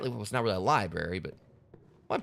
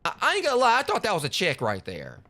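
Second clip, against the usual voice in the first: surprised; 7 semitones higher than usual. Real, not acted. Surprised reaction, high loud.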